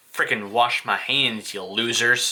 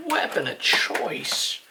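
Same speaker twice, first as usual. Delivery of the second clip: whispered, slow and eerie; creepy whispered album title; spooky whisper; 4 semitones higher, slower than usual. Pretend. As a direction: breathe the title like a ghost story.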